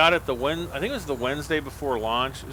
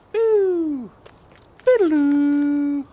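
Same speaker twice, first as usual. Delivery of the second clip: high, loud goofy shout; silly yell; 9 dB louder, much slower than usual. Pretend. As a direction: belt out a nonsense cry. Goofy yells while playing.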